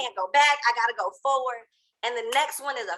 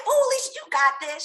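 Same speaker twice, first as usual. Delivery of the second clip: higher, quick pep-talk burst; upbeat cheer; 6 semitones higher, 3 dB louder, faster than usual. Retold or imitated. Lively team leader cheering Alicia on, upbeat cheer. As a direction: cheer her on like a lively teammate.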